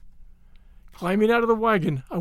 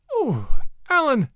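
piteous; 6 semitones higher than usual. A narrator's reading. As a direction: let her fear break through on the name. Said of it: "she asked piteously".

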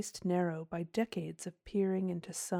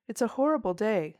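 louder, vehement outburst; sudden violence; 3 semitones higher, 7 dB louder than usual. A narrator's reading. Will blurting out his unease at the day, vehemently. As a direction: burst out with it suddenly. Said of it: "surprised by his own violence".

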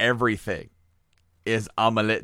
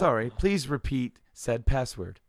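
slow, measured automated request; mock machine prompt; computer voice; 3 semitones higher than usual. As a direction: lightly imitate a polite lab computer. Voicing the laboratory's computer.

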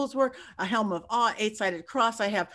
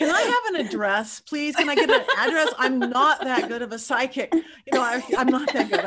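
laughing plea; 2 semitones higher, 4 dB louder than usual. Retold or imitated. Pleading with crew for address.

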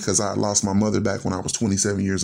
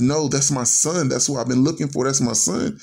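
retold insistence; 4 semitones higher than usual. Father to doubting girlfriend about his son, insistent.

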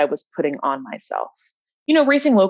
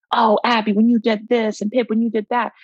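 higher, bubbly teammate chatter, lightly voiced; excited teammates; 6 semitones higher than usual. Teammates in the car chatting about the race, lightly mimicked excitement. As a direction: mimic teammates gushing about each other's racing. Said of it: "they're all excited talking about the race".

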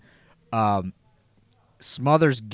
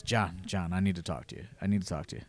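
hushed nervous Tracy; 6 semitones lower, 11 dB quieter, faster than usual. Retold or imitated.

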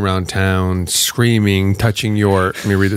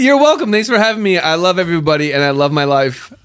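put-on high voice; 8 semitones higher, 3 dB louder, faster than usual. Outro in put-on voice.

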